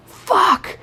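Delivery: high-pitched mock outburst; one high curse, imitating an exasperated friend; imitated frustration. Friend in car hitting steering wheel, high imitated frustration.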